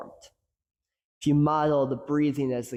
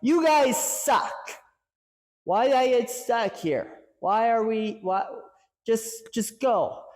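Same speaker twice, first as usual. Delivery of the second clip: much higher, mock yelling coach; a hammed-up angry coach rant, pitched up; 7 semitones higher than usual. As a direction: rant at the team like a fed-up coach. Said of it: "going in there and yelling like".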